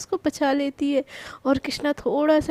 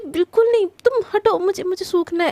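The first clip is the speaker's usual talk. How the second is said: louder, higher flat-out refusal; firm refusal; 4 semitones higher, 4 dB louder than usual. Acted. Krishna refusing Prachi's swim invitation, loud and irritated. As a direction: shut the idea down, irritated.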